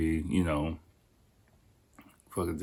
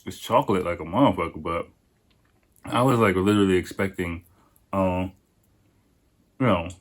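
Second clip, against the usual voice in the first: talking through a mouthful; mouth full. Real, not acted. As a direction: speak around a bite of food. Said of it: "I'm eating with my mouth full".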